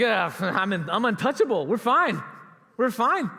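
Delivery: a laughing, rising boast; cocky and pumped. Retold or imitated. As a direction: crow that you are untouchable. Cocky after crossing bridge.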